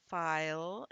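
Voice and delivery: "file" drawn out with a rising end; think-to-spell voice. Shown as a demonstration. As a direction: hold the vowel and L of "file", rising. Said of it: "we're going to think".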